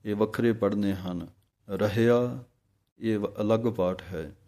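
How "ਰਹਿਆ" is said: ਰਹਿਆ with its r kept separate from the word before; careful pronunciation. Shown as a demonstration. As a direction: sound ਰਹਿਆ with its own r. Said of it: "ਰਾਰੇ ਦੋਵੇਂ ਇਕੱਠੇ ਨਾ ਹੋ ਜਾਣ".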